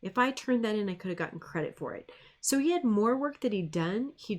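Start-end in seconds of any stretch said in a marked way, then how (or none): 0.0-2.1 put-on higher, dismayed teen voice, then trailing off; imitating the boy. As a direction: play the regretful student. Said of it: "and he'd go".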